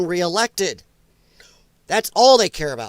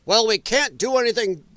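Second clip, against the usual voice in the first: lightly mocked British pundit; British accent. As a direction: quote him with a hint of British accent. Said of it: "I'm saying it in British accent".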